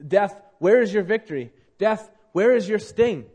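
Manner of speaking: triumphant preacher's jeer; mocking challenge. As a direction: call death out mockingly, punching the words. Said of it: "as if to say, to mock it".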